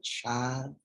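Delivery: slow, weary sigh of a grandmother; lightly voiced grandmother, slow and sighing. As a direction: drag it out like a Southern church lady. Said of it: "she let out this deep sigh and she said".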